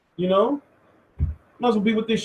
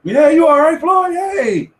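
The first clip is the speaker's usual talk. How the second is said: high, loud fussing referee; mock protective referee; 9 semitones higher, 5 dB louder, slower than usual. Ref Kenny Bayless checking on Floyd, high and loud. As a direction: fuss over the fighter like a worried ref. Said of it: "Kenny be protecting the shit out of Floyd".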